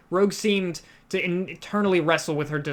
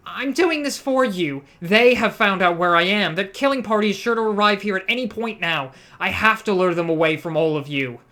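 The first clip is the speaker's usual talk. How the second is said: furious; 3 semitones higher, 4 dB louder than usual. Acted. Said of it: "she explained furiously".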